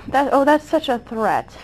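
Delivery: dry sarcastic mock alarm. Real, not acted. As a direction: say it with heavy sarcasm. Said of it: "That was sarcasm".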